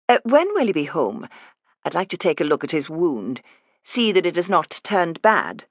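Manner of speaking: refined Edinburgh lilt, unhurried at the end; caring nurse with a posh Scottish voice; Edinburgh accent. Acted. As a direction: nurse presses to see the wound in an Edinburgh accent. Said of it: "I do a passable Edinburgh accent".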